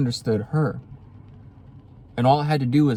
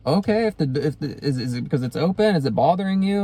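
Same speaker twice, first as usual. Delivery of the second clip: talking to the cat; 4 semitones higher, faster than usual. Real, not acted. Asking her cat what's wrong.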